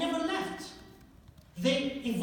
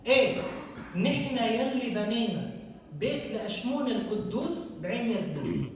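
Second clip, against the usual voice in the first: Lebanese accent; much faster than usual. Shown as a demonstration. Rereading the inscription for the audience in today's Lebanese accent. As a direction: rattle it off like a Beirut local. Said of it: "In Lebanese".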